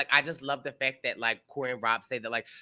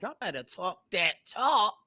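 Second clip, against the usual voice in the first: sassy cheer; 6 semitones higher than usual. Retold or imitated. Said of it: "I was like".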